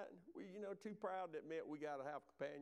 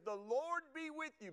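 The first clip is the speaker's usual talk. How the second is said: calling out; 8 semitones higher than usual. Acted. Boaz calls out the greeting.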